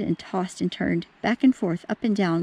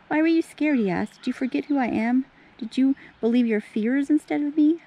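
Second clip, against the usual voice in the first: gentle Jesus voice; 5 semitones higher than usual. Acted. Jesus speaks to frightened friends.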